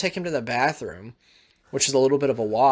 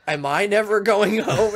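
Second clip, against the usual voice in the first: higher, small anxious question; a kid scared he's stranded; worried child; 7 semitones higher, 3 dB louder than usual. Retold or imitated. Son asking his father at the airport, worried.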